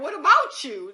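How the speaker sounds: high, loud, laughing disbelief; laughing incredulous retort. Retold or imitated. Laughing back at the panicked friend, high incredulous retort.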